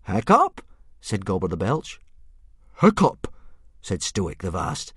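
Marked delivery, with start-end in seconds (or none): 0.0-0.6 high, loud disbelieving question; can't believe it; incredulous. Acted. 2.8-3.3 high, loud flat disbelief; stunned repeat; disbelieving. Acted. Stoic's disbelief.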